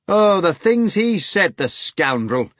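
high, loud, slow outraged laugh; screaming with laughter. A narrator's reading. Natasha mocks the hog, high laughing scream. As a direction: laugh and rage at once. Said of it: "Natasha screamed, laughing".

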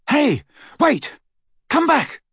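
high, urgent call after someone. Acted. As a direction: call out loudly to stop someone leaving. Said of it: "He had not meant".

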